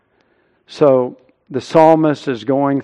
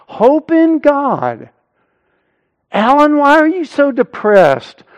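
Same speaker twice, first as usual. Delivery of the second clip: preaching to oneself; 11 semitones higher, 5 dB louder than usual. Acted. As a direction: urge your own downcast soul forcefully. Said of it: "begins to preach to himself".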